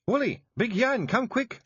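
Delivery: high, loud call down the hole; yelling. A narrator's reading. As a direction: shout for the lads to hurry. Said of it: "she yelled".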